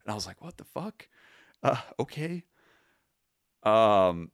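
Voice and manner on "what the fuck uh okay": high, quiet, bewildered mock reaction; retold disbelief, then a shrug; baffled what the fuck. Gift card thrown on chest.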